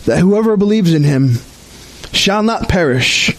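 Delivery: measured liturgical reading, long pauses; formal, deliberate church reading; solemn scripture reading. Real, not acted. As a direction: read scripture to a congregation, unhurried. Reads scripture in worship.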